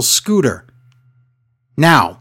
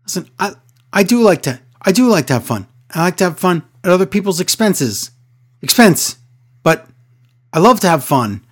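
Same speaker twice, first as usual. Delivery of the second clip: higher, rambling mock Shane; lightly voiced flustered wrestler; imitating Shane; 4 semitones higher than usual. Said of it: "He goes".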